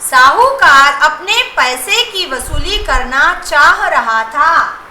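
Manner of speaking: slow, each word laid out clearly; slow dictation. Shown as a demonstration. Teacher reading the sentence slowly to her students. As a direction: read it out slowly so the class can follow. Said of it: "तीसरा वाक्य देखिए बेटा".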